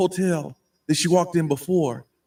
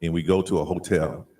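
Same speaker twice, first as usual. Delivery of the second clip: much lower, booming-bass storyteller; very low electronic bass narration; deep bass voice changer; 10 semitones lower than usual. Pretend. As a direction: tell the tale through a deep voice changer. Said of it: "a little more deep bass".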